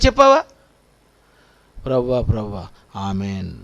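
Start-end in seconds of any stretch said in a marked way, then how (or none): 1.8-3.5 much lower and softer, a limp mumbled prayer; mock feeble prayer. Preacher mocks a lazy believer's prayer, feeble and mumbled. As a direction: mumble it like a believer who barely prays.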